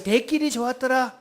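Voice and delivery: light Gyeongsang-style call for repetition; Gyeongsang dialect. Shown as a demonstration. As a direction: lead the chant with a hint of Gyeongsang. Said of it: "경상도 버전 들어갑니다". (가벼운 경상도 사투리로 선창)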